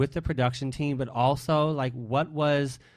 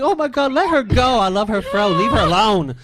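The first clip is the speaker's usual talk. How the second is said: loud, high, hammed-up wailing plea; retold crying plea; 9 semitones higher, 8 dB louder than usual. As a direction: act out begging tearfully for her, loudly. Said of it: "like, crying, like".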